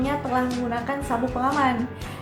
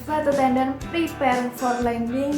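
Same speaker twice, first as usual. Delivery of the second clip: cockpit command. Retold or imitated. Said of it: "ada komen".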